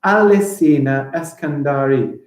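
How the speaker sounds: measured, lightly separated "Alessina Eskandari"; careful recount of "Alessina Eskandari"; syllable by syllable. Shown as a demonstration. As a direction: say each beat of "Alessina Eskandari" clearly. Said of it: "I think I got eight".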